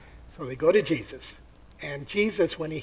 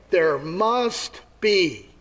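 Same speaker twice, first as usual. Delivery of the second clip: stubborn skeptic. Acted. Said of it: "Another will say".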